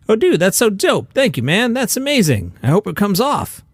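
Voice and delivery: high-pitched gushing quote; mock enthusiasm. Comedy host quoting Pete's reaction to a tattoo, mock enthusiasm.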